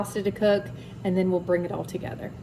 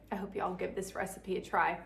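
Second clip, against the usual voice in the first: whispering; 7 dB quieter than usual. Real, not acted. Unvoiced closing line.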